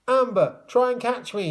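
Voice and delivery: high, loud call; shout. A narrator's reading. Tom shouting to Amber as he heads for her. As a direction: yell it across to her. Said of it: "he shouted".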